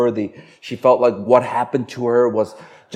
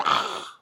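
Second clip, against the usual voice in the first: hushed mock scream; voiceless imitation of yelling; imitated yell; 9 dB quieter than usual. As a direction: mimic a yell at low volume. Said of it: "As I was going".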